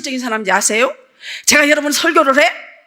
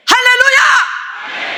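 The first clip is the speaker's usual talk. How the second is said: high, long-drawn shouted acclamation; exultant hallelujah shout; 10 semitones higher, 3 dB louder, much slower than usual. Real, not acted. Preacher rousing the congregation, exultant drawn-out shout. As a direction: belt it out and hold it.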